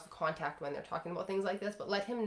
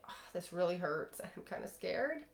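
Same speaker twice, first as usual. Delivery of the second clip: soft and vulnerable; 6 dB quieter than usual. Shown as a demonstration. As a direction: drop the armour and let it show. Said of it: "soft and vulnerable and not pretending".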